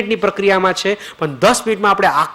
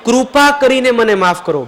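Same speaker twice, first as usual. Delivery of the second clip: louder, higher pleading call; 4 semitones higher, 4 dB louder than usual. Shown as a demonstration. Guru leads the group in begging forgiveness, out loud. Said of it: "મોટેથી ... બધા મોટેથી બોલે".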